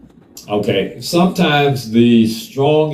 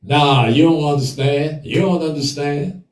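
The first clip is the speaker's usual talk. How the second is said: mocking heated reply; 3 semitones higher than usual. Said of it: "The first thing they say is".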